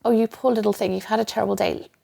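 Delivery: mock-soothing, spoiling the listener; a hint of a doting indulgent inner voice. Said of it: "highly indulgent".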